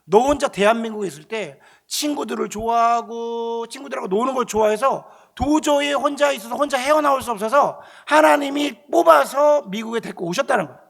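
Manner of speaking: slow, loud, drawn-out pronouncement; voice of God. Retold or imitated. God telling the student why he was brought to America, solemn. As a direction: stretch the words out with solemn weight. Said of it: "그러면서 말씀하시는 게".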